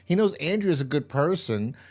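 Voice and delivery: high-pitched, indignant rant; exasperated. Real, not acted. Viewer ranting about a character's senseless choice, exasperated. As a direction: demand answers, voice climbing high in disbelief.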